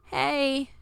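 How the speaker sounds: put-on a weak, croaked greeting from a hurt girl; croaking reply. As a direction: barely get the word out through a sore throat. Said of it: "came the croaking reply".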